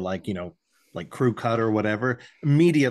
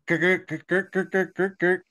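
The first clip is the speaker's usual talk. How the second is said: fax line screech; 7 semitones higher than usual. Retold or imitated. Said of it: "that was a terrible fax machine, uh, impression".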